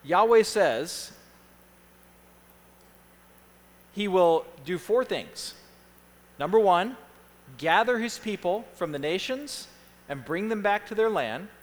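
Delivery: spaced phrases with long pauses; slow dictation. Real, not acted. Pastor gives handout points to the congregation, slowly. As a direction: read it slowly, piece by piece. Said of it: "I'm gonna read them slowly".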